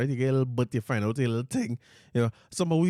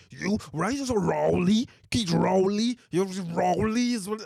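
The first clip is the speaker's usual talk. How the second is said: mocking aggressive man; 6 semitones higher, slower than usual. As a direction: ham up his aggressive ranting. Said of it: "he's got to be like".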